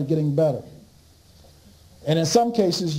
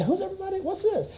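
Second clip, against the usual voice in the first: high, softer puzzled asking; hushed amazement; 14 semitones higher, 5 dB quieter, much faster than usual. Retold or imitated. He looks round the crowded meeting, hushed and amazed. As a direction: wonder aloud under your breath. Retold arrival at packed meeting.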